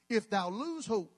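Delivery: slowish archaic reading; mock King James reading. Shown as a demonstration. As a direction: read it like the old Bible. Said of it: "this is for those who need a thou and a thee".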